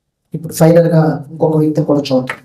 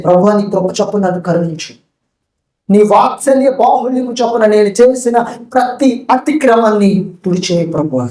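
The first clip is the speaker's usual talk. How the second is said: tearful plea; 3 semitones higher than usual. Acted. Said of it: "ఏడుస్తూ ఏమంటున్నాడంటే".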